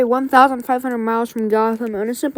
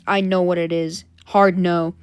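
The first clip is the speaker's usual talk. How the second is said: low, firm refusal; lightly voiced hero, pitched down; Batman; 5 semitones lower than usual. Batman turning down Alfred's gadget name, low and firm. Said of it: "Batman just says".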